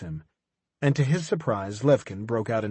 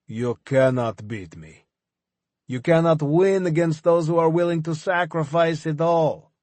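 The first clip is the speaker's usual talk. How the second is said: defiant fanatic; 5 semitones higher, 4 dB louder than usual. Acted. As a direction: swear it like a true believer. Levkin defiant.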